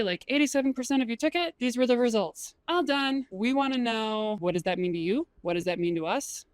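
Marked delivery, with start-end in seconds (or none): 0.3-3.3 dull data read. Shown as a demonstration. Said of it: "Don't just say".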